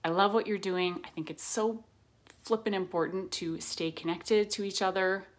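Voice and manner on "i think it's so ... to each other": Canadian accent. Real, not acted. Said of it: "That sounded really Canadian".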